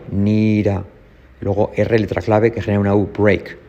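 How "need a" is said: "need a" with the D tapped as a soft R. Shown as a demonstration. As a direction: flap the D in "need a", like "nira". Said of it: "D como R suave".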